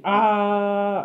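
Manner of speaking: a half-hearted scream; mild mock scream. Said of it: "That's how you scream?".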